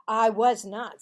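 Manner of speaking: loud protest; defensive boy. Acted. Marvin to Cassie, loud defensive denial. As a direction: deny it hotly.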